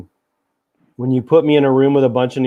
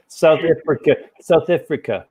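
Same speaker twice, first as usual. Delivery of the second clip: reluctant go at a South African accent, pitched up; South African accent attempt; 5 semitones higher than usual. Shown as a demonstration. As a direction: have a short stab at sounding South African. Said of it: "the South African one easily".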